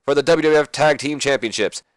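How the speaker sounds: lightly voiced excited ring announcer call; J R commentary. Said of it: "while J R's like".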